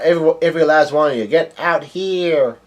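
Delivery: half-volume imitation of a bellowed order; mock yell. Big Mom ordering everyone to get out, mock yell. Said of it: "Big Mom is yelling out".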